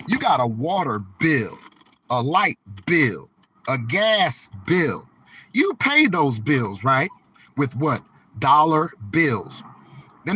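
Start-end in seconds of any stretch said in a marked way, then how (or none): 0.1-5.1 slow, each "bill" leaned on hard; stress on bill. Shown as a demonstration. Telling viewers that money only buys bills, punching each "bill". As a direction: land on "bill" every time, like bold type. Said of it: "bold type the word bill".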